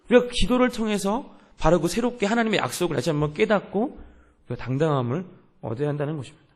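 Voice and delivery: normal talking voice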